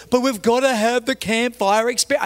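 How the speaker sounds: imitated whining objection; pleading protest. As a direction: plead your case like a put-out volunteer. Ranger pleads in retold argument.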